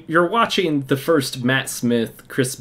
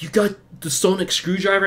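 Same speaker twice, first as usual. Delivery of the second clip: awed classmates; 8 semitones higher than usual. Retold or imitated. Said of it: "They're like".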